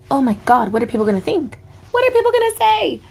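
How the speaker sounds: mock panic. Relative hearing about a tattoo, hammed-up panic. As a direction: go up into a hammed-up horrified wail.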